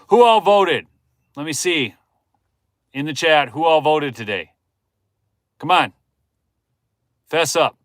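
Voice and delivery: loud, high, playful prodding; coaxing the chat. Real, not acted. A streamer coaxes the chat to admit voting, loud and playful. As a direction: egg the viewers on to confess.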